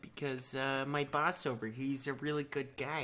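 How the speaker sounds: mild, kindly Canadian guard; apologetic mock Canadian official; Canadian accent. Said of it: "be a little more kind".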